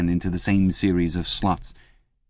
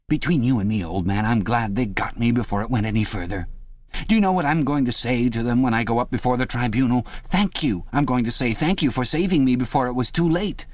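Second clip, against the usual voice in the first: much higher, eager, anxious chap's voice; a frightened man begging for reassurance, pitched up high; Parsons, nervous and pleading; 4 semitones higher than usual. Acted. Parsons begging Winston in the cell, high anxious pleading.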